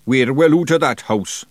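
high, broad Scottish wee man; a loud, rough little pixie; Feegle voice. A narrator's reading. Big Yan speaks.

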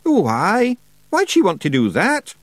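high, loud Scottish wee man sneering; mock the idea, little pixie; scornful Feegle. A narrator's reading. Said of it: "said Rob scornfully".

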